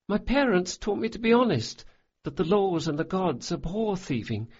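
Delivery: put-on a boy who's cried himself out; lightly voiced weary boy; boy's voice, subdued. Jean after tears.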